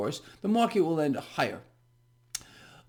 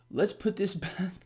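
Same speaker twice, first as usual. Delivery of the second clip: softer, breaking into a laugh mid-phrase; 5 dB quieter than usual. Real, not acted. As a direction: try to regain composure but crack up. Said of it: "Let me calm down a second".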